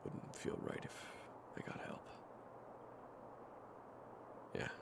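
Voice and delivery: low, soft, near-whispered voice; hushed, gentle refusal. Acted. Fighter asks companion to stay back, hushed and low. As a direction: turn them down softly, almost under the breath. Quietly declining companion's help.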